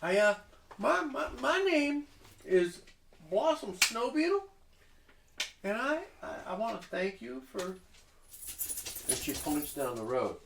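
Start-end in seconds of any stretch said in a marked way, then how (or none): 0.0-7.6 much higher and much louder, theatrical indignation; grand halfling hostess. Acted. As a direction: sweep in and scold like a diva expecting applause. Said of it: "expecting applause".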